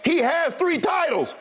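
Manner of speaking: heated debate interruption. Real, not acted. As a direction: push your point over the other guy. Cutting in during argument.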